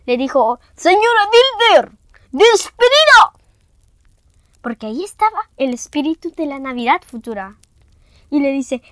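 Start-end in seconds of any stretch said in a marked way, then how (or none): 0.7-3.3 high, slow little voice of a shrunken man; squeaky tiny old miser; tiny shrunken Scrooge. Acted. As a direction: sound as small as a bean. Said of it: "se hizo tan pequeñito como un frijolito".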